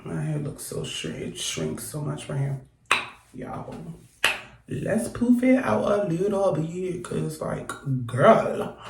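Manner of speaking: far from mic. Real, not acted. Fixing hair away from mic.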